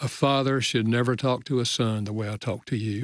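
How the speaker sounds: plain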